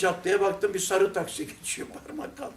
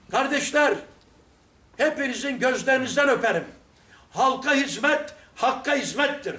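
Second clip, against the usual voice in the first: calling out. Retold or imitated. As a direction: call it out like praising the workers. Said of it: "bağırarak konuşuyorum ya". (işçilere bağırarak övgü)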